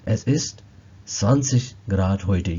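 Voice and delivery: zwanzig Grad heute drawn out very slowly; slow model phrase. Shown as a demonstration. Teacher demonstrating German temperature phrase, very slow. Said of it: "teacher models phrase".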